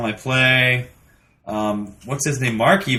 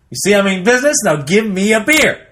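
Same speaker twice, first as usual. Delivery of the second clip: hammed-up insistence; mock demanding; 5 semitones higher than usual. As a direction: joke bear making a raised-pitch demand. Bear demands a beer in joke.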